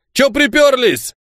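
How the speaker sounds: high, slow and surly; rude greeting. Acted. Guard rudely greeting the arriving riders, surly and slow. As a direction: grumble a rude welcome. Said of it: "Ласково нас здесь встречают".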